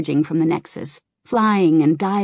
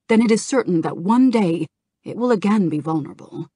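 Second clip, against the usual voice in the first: louder, firm persuasive speech; earnest argument; 3 dB louder than usual. Acted. Kalecgos arguing before the blue dragons, firm and earnest. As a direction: press the council to act.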